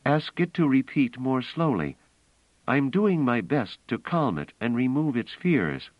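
a woman insisting on the plan; Bliss, urgent and intent. Acted. Bliss urging Pellerat to play robots, earnest.

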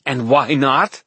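high, taunting and enticing; mad mocking question. A narrator's reading. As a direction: tease him like a mad queen. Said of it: "Aurora laughed and asked".

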